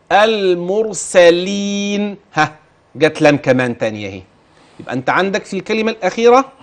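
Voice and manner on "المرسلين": المرسلين recited slowly with a thin lam; slow demo of the word. Shown as a demonstration. Teacher completing the word for the student, slow recitation. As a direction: stretch المرسلين out sound by sound. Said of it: "طب كمل الكلمة".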